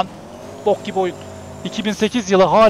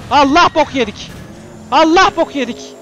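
raised pitch, drawn-out first word; alarmed cry; 5 semitones higher, 3 dB louder than usual. Real, not acted. Gamer sees trouble coming at him, alarmed cry.

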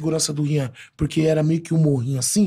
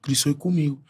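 ordinary talk

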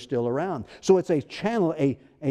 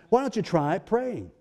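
pointed prodding; 3 semitones higher than usual. Acted. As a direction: prod them with the obvious answer. Repeats it pointedly after "Hello?.

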